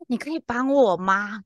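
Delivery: slow mock plea on the breath; breathy panting. Prank caller asking the agent for help, panting. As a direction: imitate a winded caller, dragging it out. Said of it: "然后很喘".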